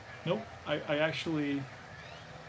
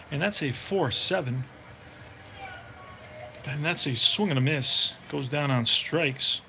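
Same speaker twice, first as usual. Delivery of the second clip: steady broadcaster voice calling each pitch; play-by-play call. Acted. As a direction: call the game like a radio announcer. Sim baseball play-by-play calling.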